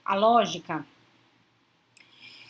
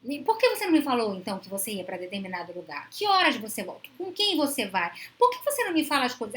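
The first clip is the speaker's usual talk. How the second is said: mock controlling interrogation; 3 dB louder than usual. Controlling partner on the phone to someone at an event: demanding interrogation. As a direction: grill a partner who didn't report in. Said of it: "pelo tom de voz".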